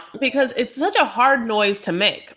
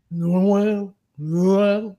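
foreign cat meow; 2 semitones lower than usual. Retold or imitated. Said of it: "the cat could also be like".

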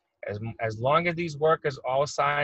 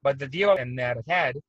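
glitching audio. Real, not acted. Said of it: "I was starting to lose you there".

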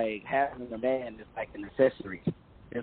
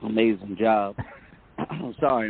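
hoarse, worn-out coach voice; 4 dB louder than usual. Real, not acted. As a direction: talk through a hoarse, tired throat. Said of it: "I'm losing my voice".

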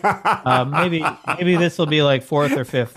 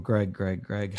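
low, fading chef babble; Swedish Chef voice; 7 semitones lower, 8 dB quieter, slower than usual. Pretend. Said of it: "The Swedish chef is mainly".

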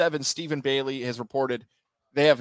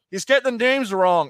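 raised, higher voice of a complaining fan; heckler's shout; 8 semitones higher, 7 dB louder than usual. Retold or imitated. Fan complaining about botched names, heckler's shout. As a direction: call it out like a heckler.

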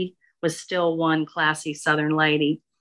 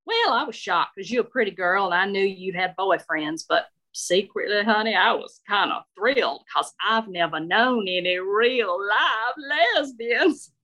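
thrilled Southern lady. Acted. Shirley confessing thrill.

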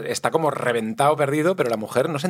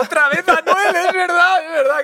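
excited exclamation; 6 dB louder than usual. Real, not acted. Jokes a rapper keeps following them.

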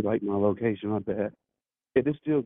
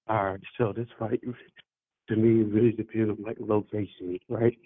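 muffled. Real, not acted. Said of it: "You sound muffled".

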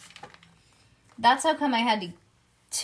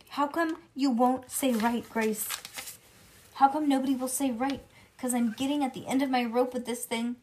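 louder, higher exasperated demand; fed-up demand; 4 semitones higher, 4 dB louder than usual. Acted. Junie B. shaking Grace, loud and fed up. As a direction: at the end of her rope.

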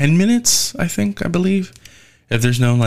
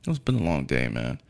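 tired, trailing off; 9 semitones lower, 8 dB quieter than usual. Retold or imitated. Tired after long day.

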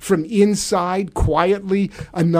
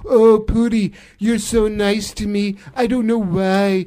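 lightly fawning presidential impression; Donald Trump. President touched by Pooty's kindness, light fawning impression. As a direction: mimic a president gushing over his pal. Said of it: "Donald Trump and Vladimir Putin".

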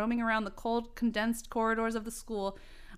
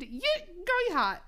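flirty guy voice; 9 semitones higher, slower than usual.

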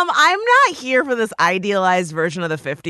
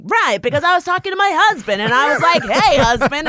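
faster, higher mock stand-up delivery; mocking the comic; 5 semitones higher, 4 dB louder, faster than usual. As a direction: parody a comic setting up a joke. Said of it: "She's like".

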